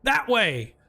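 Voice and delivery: squeaky crayfish voice. Acted. Crayfish points the way.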